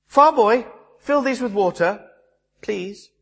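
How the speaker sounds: high, imperious order to a servant; bossy princess. Retold or imitated. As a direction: boss the farm boy around, a little haughty. Buttercup orders the farm boy.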